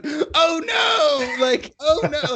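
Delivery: high-pitched, drawn-out cry of alarm; hammed-up high yell of dismay; Solomon. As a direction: imitate a friend's horrified wail. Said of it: "I just remember Solomon going".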